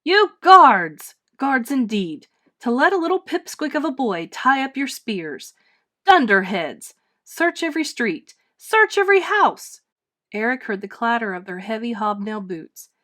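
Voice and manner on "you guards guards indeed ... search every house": loud, high furious ranting lord; old lord bellowing at his guards; angry bellowing. Acted. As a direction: roar orders at useless guards. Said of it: "angry voice of old Lord Doone".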